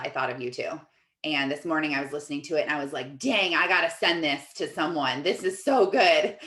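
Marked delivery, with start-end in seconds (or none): 3.2-6.4 building into a laughing rave; retold excitement. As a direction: gush about a great find, laugh creeping in. Retelling her excited reaction.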